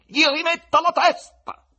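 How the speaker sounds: loud, high command; loud order. A narrator's reading. Voland ordering the head restored, loud command. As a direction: command it across the hall. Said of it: "ordinò con voce forte".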